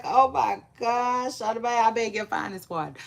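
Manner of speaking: exaggerated offended surprise; mock shock. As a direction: play up being taken aback. Acting out her shocked reaction.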